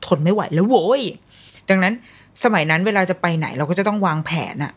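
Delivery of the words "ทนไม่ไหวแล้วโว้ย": fed up. Retold or imitated. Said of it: "มันจะมีจุดที่แบบ".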